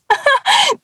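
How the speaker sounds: short, high laugh of disbelief; startled laugh. Retold or imitated. Reacting to being asked to help, startled high laugh. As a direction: imitate a startled little laugh. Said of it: "And I was like".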